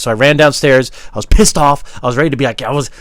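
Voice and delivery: heated, loud retelling; worked-up storytelling. Acted. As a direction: tell it fired up and emphatic. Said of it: "telling the story like this".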